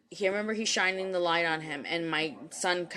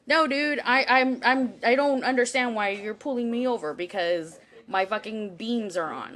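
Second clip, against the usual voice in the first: exasperated protest; 3 semitones higher than usual. Retold or imitated. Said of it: "And I'm just like".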